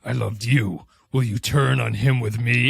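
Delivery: mock-theatrical line reading; heightened melodrama. Podcaster mimicking the augments' bad acting, heightened and theatrical. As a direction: imitate overwrought, stagey script dialogue. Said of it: "script writing for them is heightened".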